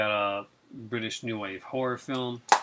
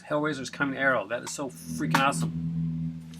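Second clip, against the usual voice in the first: excited; 5 dB louder than usual. Real, not acted. Thrilled about a film release.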